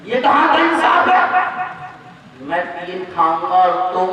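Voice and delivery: put-on loud, rising indignant rant of an old husband; angry old man. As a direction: build from grumbling to outrage. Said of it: "गुस्से में बोला". (बूढ़े का गुस्से भरा बढ़ता ग़ुस्सा)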